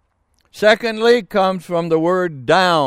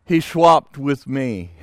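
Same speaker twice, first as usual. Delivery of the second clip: put-on quoting the old Irishman; 3 semitones lower than usual. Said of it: "Irishman put it like this".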